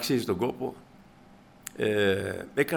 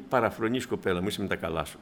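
dismissive; 5 semitones lower, 3 dB quieter than usual. Acted. Brother scolding the girl.

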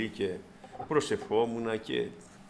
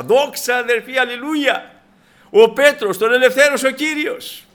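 excited shout; 11 semitones higher, 10 dB louder than usual. Acted. Servant girl shouting the news.

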